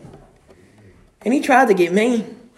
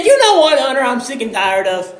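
hint of an exasperated Emily; mild quoting Emily; 2 semitones higher than usual. Telling the church about Emily, lightly voiced quote.

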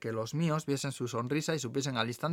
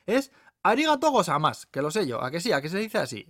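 high, loud opening, insistent lady; know-it-all lady; 6 semitones higher, 5 dB louder than usual. Acted. Lady showing off her Japanese, insistent. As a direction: insist on being right, pitched up.

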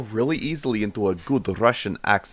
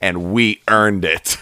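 mock nostalgic rant; 5 semitones lower than usual. Mock old-timer rant to kids.

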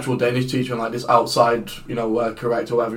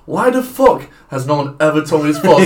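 indignant; 4 semitones higher, 5 dB louder than usual. Retold or imitated. Retelling indignant reaction to news.

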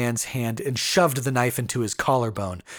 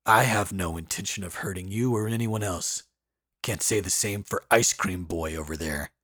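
gruff man; 3 semitones lower than usual. Acted. Voices Brom.

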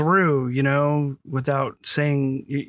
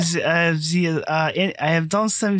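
faked French accent that slides into German; badly faked German-sounding accent; botched French accent. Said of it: "You just sounded German".

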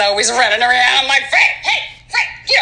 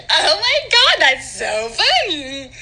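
laughing; 3 semitones higher, slower than usual. Acted. After the laughing fit.

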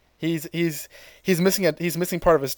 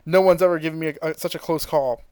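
gloating Frieza; 3 semitones higher, 4 dB louder than usual. Retold or imitated. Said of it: "Frieza says".

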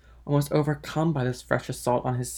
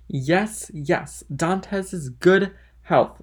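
higher, drawn-out toast; hearty toast; 5 semitones higher, 4 dB louder, much slower than usual. Acted. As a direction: raise a glass with gusto. Drunk Caderousse drinks a toast.

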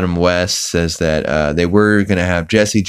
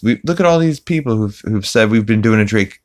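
imitating Peter; 4 semitones higher than usual. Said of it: "Look, Lois".

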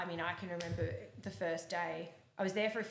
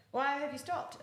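higher, sharp mock question from the coach; mock indignant coach; 8 semitones higher, 4 dB louder, slower than usual. German coach asks the rider why she stopped, higher and incredulous.

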